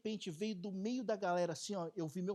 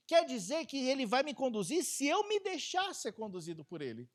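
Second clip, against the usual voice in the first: normal talking voice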